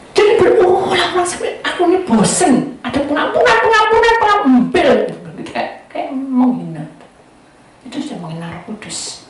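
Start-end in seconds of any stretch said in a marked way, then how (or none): 0.1-5.0 loud, high mock exasperation; fed-up mocking. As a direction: chant it derisively, pitched way up. Mocking fed-up reaction to forgiveness talk.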